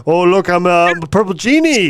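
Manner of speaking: lightly hammed-up doofus whine; a hint of a mocking goofball voice; mock dim cousin. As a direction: play up the dumb cousin, only a little. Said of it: "You're like Robin Williams' retarded cousin".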